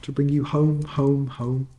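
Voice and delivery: a happy little sister bursting in; lightly voiced little girl. Fan repeating joyfully.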